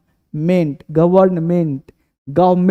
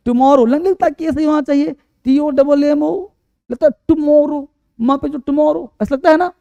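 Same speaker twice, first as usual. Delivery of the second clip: mock student guess; 6 semitones higher than usual. Voicing students' wrong spelling guess.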